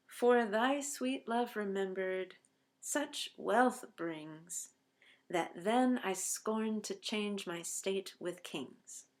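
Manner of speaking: slow, measured poetry reading; poem recital. Shown as a demonstration. Teacher reciting the couplet to the class, slow and measured. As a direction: lay each word out slowly like verse.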